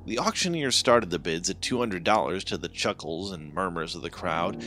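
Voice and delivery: usual speaking voice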